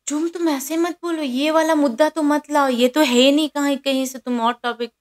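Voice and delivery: lightly mock the friend who dodges the point; mimicking Shrutika. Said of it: "तो उस पे क्या बोलती है".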